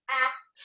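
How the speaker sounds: "At" as isolated short vowel and final t; sounded out. Shown as a demonstration. Teacher sounding out cat for pupils, "At" in separate sounds. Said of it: "sand out the words one more time".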